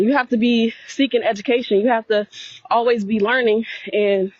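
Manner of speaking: breathless while walking; talking between breaths. Real, not acted. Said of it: "I'm out of breath".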